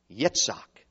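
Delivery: Yitzhak said the Hebrew way, "yeets-KHAK"; low, careful Yitzhak with Hebrew "ts" in the middle; Hebrew pronunciation. Shown as a demonstration. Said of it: "Let's give it the Hebrew pronunciation".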